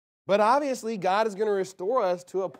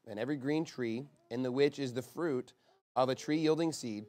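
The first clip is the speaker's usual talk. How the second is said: scripture reading; 4 semitones lower than usual. Acted. Preacher reading Genesis to the congregation, lower scripture-reading voice. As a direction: read the verses out in a subdued, even voice.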